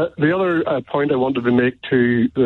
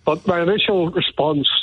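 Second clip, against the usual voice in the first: out of breath; 2 semitones higher than usual. Real, not acted. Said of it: "I'm just a bit out of breath".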